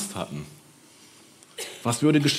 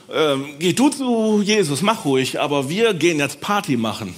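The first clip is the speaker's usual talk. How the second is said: casual brush-off; 4 semitones higher, 3 dB louder than usual. Acted. Others brush off the Samaritan.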